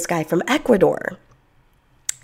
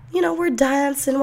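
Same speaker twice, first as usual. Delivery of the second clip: plain reading voice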